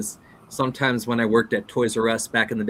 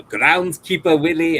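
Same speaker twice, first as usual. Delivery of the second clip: loud, raised character voice; Groundskeeper Willie; 6 semitones higher, 7 dB louder than usual. Acted. Listing Simpsons characters, loud quick impression. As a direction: punch the name out in character.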